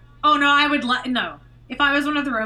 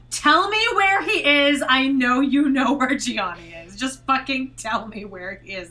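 demanding; 4 dB louder than usual. Pretend. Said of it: "I would wanna be like".

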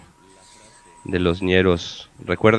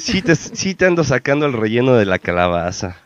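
laughing through pain; 3 semitones higher than usual. Real, not acted. Laughing right after a joke.

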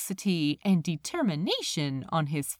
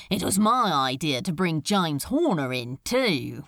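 proudly; 5 semitones lower than usual. Acted. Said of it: "he added proudly".

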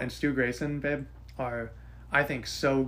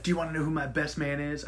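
lightly put-on Kip voice; a hint of a silly voice for Kip; odd Kip voice; 2 semitones higher than usual. Groom Kip teasing his best man, lightly voiced. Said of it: "I don't know why I made him sound like that".

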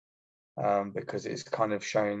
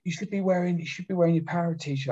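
mock RSM; 9 semitones higher than usual. RSM voiced in a story.

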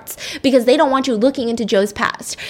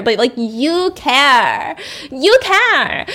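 gushing nurse; 3 semitones higher, much slower than usual. Retold or imitated. Mock fawning nurse quote.

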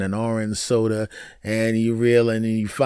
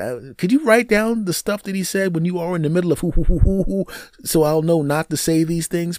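raised pitch, pleading through a list of demands; mock exasperated pleading; 6 semitones higher than usual. Man asking girlfriend what not to say, higher-pitched pleading. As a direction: beg her in a higher, worked-up voice.

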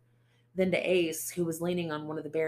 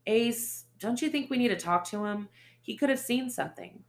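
placating; 7 semitones higher, 4 dB louder than usual. Acted. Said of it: "Franco's tone was placating, cajoling".

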